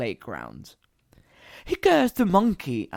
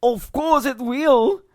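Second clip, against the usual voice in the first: put-on high, loud child's voice; confident child; 9 semitones higher, 8 dB louder than usual. A narrator's reading. Another child answering the older girl, confident. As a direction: reassure breezily. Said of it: "the other said".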